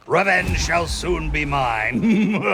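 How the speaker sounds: villain gloat. Acted. Villain gloating over scheme.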